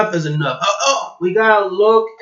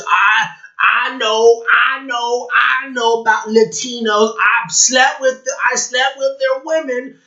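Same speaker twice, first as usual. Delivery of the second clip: mocking imitation; 6 semitones higher than usual. Mockingly acts out man claiming expertise.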